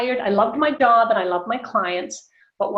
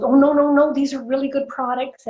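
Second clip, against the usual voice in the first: eager protest; 5 semitones higher than usual. Retold or imitated. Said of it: "And she goes".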